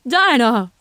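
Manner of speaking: loud call after her; angry yell of her name. A narrator's reading. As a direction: call her back sharply. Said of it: "her mother yelled".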